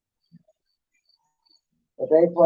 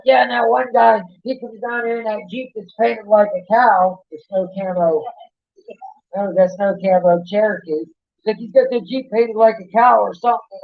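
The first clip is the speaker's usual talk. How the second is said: imitating yelling owner; 4 semitones higher than usual. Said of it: "she's yelling".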